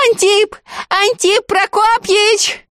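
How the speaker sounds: full-voiced cry. A narrator's reading. The girl calls her beloved over the water, full-voiced cry. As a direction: cry the name out with all her might. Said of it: "во всю мощь выкрикнула".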